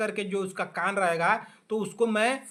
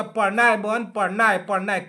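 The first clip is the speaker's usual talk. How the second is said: louder, repeated urging to study; insistent urging; 4 dB louder than usual. Retold or imitated. Teacher urging lazy students to study, louder. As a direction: press the point home, over and over. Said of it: "लिख करके बोलूँगा".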